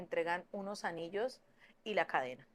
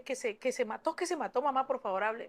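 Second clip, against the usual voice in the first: raised, urgent retold plea; frantic pleading; 4 semitones higher than usual. Daughter telling mamá of the death, retold frantic pleading. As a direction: stammer into a frantic appeal, pitched up.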